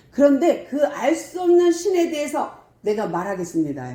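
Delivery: re-enacted proclamation; Paul. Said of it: "제가 조금 재현을 하면".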